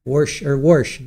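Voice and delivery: "warsh" said with an added r, "worsh"; warsh not wash. Shown as a demonstration. Vlogger mocking regional speech, "warsh" with an added r. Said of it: "warsh, not wash".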